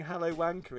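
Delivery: lightly put-on Irish accent. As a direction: quote it with a hint of Irish. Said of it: "in an Irish accent".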